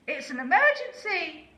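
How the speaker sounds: very high, loud alarm call; urgent shout. A narrator's reading. Lazy owl fakes an emergency to the horse, shouting. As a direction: sound the alarm in a panic. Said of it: "cried Aussie".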